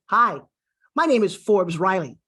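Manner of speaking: deliberate "Forbes Riley", set off by pauses; memorable introduction. Shown as a demonstration. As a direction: clear "Hi", then a beat before "my name is Forbes Riley". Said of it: "I intend for you to remember it".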